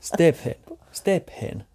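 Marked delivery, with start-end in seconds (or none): 0.0-0.5 laughing. Real, not acted. Laughing over the name.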